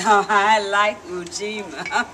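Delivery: a hint of a pleased grandma; gentle grandma. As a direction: say it like a content old lady. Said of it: "She nodded and said".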